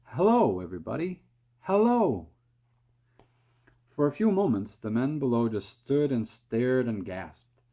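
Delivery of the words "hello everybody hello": high, loud cheerful hello; calling out. A narrator's reading. Small boy calls down from the peach, loud and high. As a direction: call down to the crowd far below. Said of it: "calling out".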